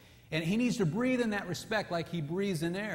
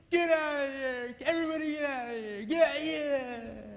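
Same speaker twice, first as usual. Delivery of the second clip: grouchy angry; 9 semitones higher than usual. Acted. Husband elephant driving everyone away, grouchy. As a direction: growl them all out, grumpy. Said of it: "He's grouchy and grumpy and angry".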